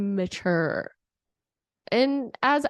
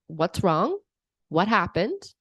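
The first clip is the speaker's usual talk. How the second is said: gentle concern; 4 semitones lower, slower than usual. Retold or imitated. Parent gently asking an upset child what happened. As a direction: ask like a caring parent. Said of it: "you could ask them".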